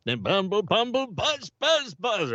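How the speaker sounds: high-pitched buzzing bee; singsong bumbling bee noises; cartoon bee. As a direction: buzz up high like a cartoon insect. Acting out cartoon transformation into bee.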